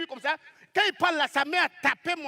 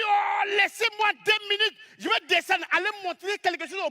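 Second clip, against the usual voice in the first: raised mock shout; angry neighbor shouting; 6 semitones higher than usual. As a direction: yell it like a hothead losing it. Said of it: "Il dit".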